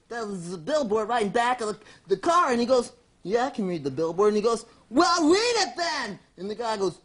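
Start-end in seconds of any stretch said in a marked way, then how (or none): 3.2-4.3 low-pitched, unimpressed reply; put-upon guy. Acted. Acts man answering ranger. 4.9-6.2 slow, insistent comic order; bossy forest ranger. Acted. Acts ranger ordering man.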